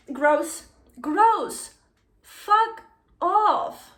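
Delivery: loud, high, disgusted rejection; revolted outburst. Real, not acted. Reader rejecting a creepy romance, revolted.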